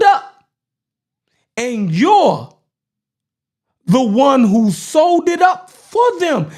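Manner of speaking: emphatic oratory in deliberate, separated phrases; measured, forceful speechmaking; political speech delivery. Acted. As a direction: deliver it like a speech to a crowd, punching key words.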